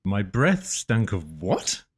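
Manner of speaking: quiet performed line. Acted. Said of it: "You say it now, Pete".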